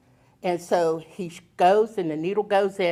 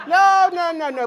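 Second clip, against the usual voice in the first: high, emphatic no's through laughter; laughing refusal; 10 semitones higher, 9 dB louder than usual. Real, not acted. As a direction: protest while laughing, first no loudest. Laughing refusal of more kids.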